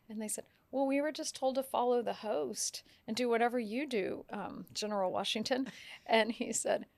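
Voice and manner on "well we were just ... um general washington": meek explanation. Retold or imitated. Guests explaining themselves to Washington.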